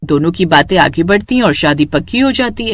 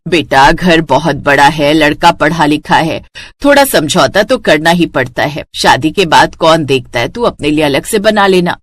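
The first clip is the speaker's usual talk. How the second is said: lightly voiced mother, lower pitch; coaxing mother; 5 semitones lower than usual. Mother urging daughter to compromise on marriage, coaxing. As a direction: talk her round in a low, measured way.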